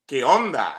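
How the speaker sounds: casual "¿Qué onda?" in Mexican Spanish; Mexican slang. Shown as a demonstration. Teacher gives students a Mexican slang greeting. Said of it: "That's Issacharite Spanish".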